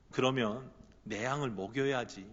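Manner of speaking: soft, low, intimate plea; hushed gentle urging. Acted. Jesus quietly urging Peter to feed his sheep, hushed. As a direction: coax him quietly, as if leaning close. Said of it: "이렇게 속삭이시는 것 같아요".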